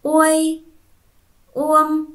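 uôi, uông read high and loud, each word apart; clear model reading. Shown as a demonstration. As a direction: say each rhyme loudly and clearly for the class. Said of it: "Con hãy đọc lại vần". (đọc mẫu to, rõ ràng)

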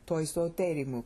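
"Toi soterimu" as its own separate phrase; phrase after pause. Shown as a demonstration. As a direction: start afresh on "Toi", even rhythm through "soterimu". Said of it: "and then you pause".

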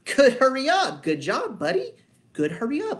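high, loud, gushing praise to the dog; excited praise. Shown as a demonstration. Trainer praising the dog after it goes, excited and high. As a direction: make a big deal of it, cheering the dog on. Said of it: "I go".

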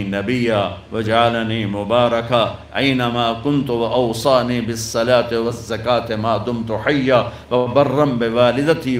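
slow, low chanted recitation; Quran recitation. Acted. Preacher reciting Isa's words from the cradle, slow chant. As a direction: intone the verses solemnly.

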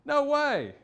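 Paul's flat refusal, loud and high; emphatic refusal. Retold or imitated. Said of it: "He says".

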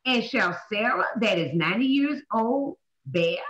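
slow, measured Bible reading; stately, unhurried scripture reading. Acted. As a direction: read the verse out deliberately, drawing out key words. Reads scripture aloud to class.

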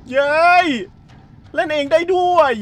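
surprised yelp. Real, not acted. Streamer surprised the game plays itself, high startled exclaim. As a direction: blurt it out caught off guard.

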